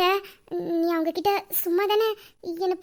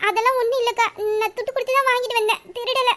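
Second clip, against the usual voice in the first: nervous laugh; 6 semitones higher, 3 dB louder than usual. Acted. Girl accused of stealing, defends.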